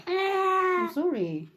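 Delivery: high, very slow sorry; pleading coo, held long; drawn-out apology. Real, not acted. Apologizing to crying child.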